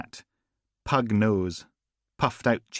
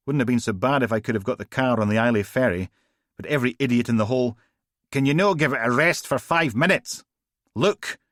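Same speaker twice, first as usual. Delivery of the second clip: fast, higher, louder grumble then snap; Steele exasperated; 4 semitones higher, 4 dB louder, faster than usual. Acted. Steele snapping at Logan to stop moaning, fast and loud. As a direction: rattle it off then cut him short.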